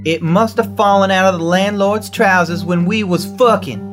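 calm turning angry. Acted. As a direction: let it rise from calm to fury. Wife confronted, escalating quarrel.

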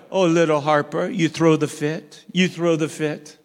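lightly voiced grandpa teasing "you throw the fit"; cooing to toddler. Grandfather to little Harper, a touch of playful cooing. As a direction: gently egg on a tantruming toddler, mildly. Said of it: "this is what I tell her".

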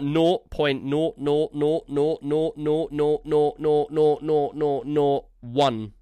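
drawn-out Yorkshire noughts; Yorkshire accent. Real, not acted. Co-host mocking the tiny share of the Steam collection, Yorkshire-sounding. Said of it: "You started sounding like you were from Yorkshire".

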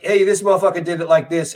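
loose, easy street-talk delivery; casual with friends. Retold or imitated. Talking to black friends, relaxed casual delivery. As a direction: toss it off like chatting with the boys. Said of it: "if I'm sitting here talking to you fellas".

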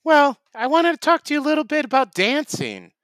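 high, fast eager character voice; goofy Tim voice. Acted. Tim telling Matt he loves dancing, high eager voice. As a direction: gush like an odd enthusiast.

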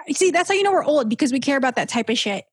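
normal talking voice

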